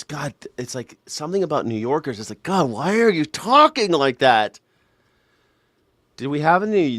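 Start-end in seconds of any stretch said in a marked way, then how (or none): 2.4-4.6 drawn-out, raised exasperated complaint; slow, pained protest at an irritating accent. Acted. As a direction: plead in exasperation, stretching the words. Exasperated reaction to New Yorkers.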